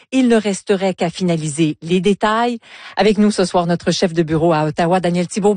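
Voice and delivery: measured anchor introduction; steady, deliberate broadcast lead-in; news read. Acted. Anchor reads scripted introduction to interview.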